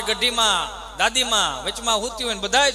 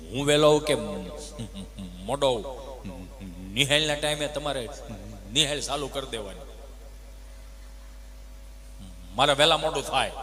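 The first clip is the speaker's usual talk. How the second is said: lower, unbothered pupil's reply; cheeky pupil; 8 semitones lower than usual. Retold or imitated. Pupil Gabha answering the teacher back, lower and unbothered. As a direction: shrug off the scolding in a lower voice.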